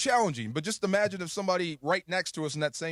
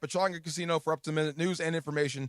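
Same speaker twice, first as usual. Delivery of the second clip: ad read. Acted. Host reads casino ad.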